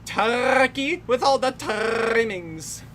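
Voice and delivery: mock director voice. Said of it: "where he's like".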